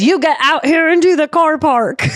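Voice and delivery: high, hammed-up challenge to step outside; mock Aussie challenge. Steve dares the crocodile hunters at the bar: mock Aussie challenge.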